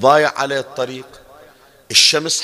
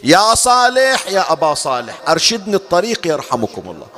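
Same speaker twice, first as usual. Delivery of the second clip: calling out; 4 semitones higher than usual. Retold or imitated. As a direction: cry out to the Imam, stretching the first name. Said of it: "شو تصيح".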